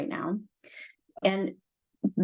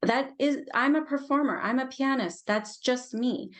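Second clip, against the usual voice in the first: higher-pitched acted self-defining claim; lightly voiced inner part, raised pitch; voicing an insistent part; 5 semitones higher than usual. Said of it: "and we say".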